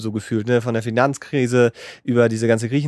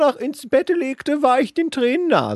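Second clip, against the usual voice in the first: put-on high, slow old wizard voice; 11 semitones higher, slower than usual. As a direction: read it like an ancient wizard. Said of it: "ich mach das auch so ein bisschen in der Zaubererstimme". (hohe, langsame Zaubererstimme)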